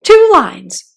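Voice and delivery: loud excited cry. Acted. Mock Turtle cries out to Alice, loud and eager. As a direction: blurt it out eagerly. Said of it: "cried the Mock Turtle".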